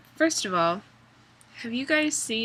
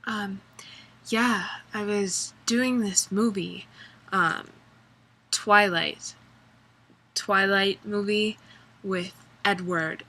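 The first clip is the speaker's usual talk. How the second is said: lightly mocking flat breathy Bella voice; a hint of mocking Bella; Kristen Stewart impression. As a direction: mumble like a bored actress. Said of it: "she talks like this".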